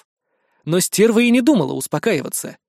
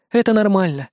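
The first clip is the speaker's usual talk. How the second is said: plain reading voice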